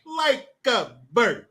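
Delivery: slow, lightly voiced Seagal drawl; a hint of Seagal, stretched out; deadpan slowed Seagal line; Steven Seagal impression. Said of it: "That's what Steven Seagal says".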